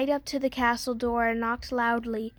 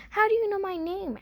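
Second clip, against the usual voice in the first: put-on a higher, startled question from a boy caught off guard; 8 semitones higher than usual. A narrator's reading. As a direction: jump at the bird's voice and ask. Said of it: "asked Jack with a start".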